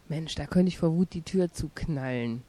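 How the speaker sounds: loud and furious; angry. Acted. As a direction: shout it out in a rage. Furious at mother, door slam.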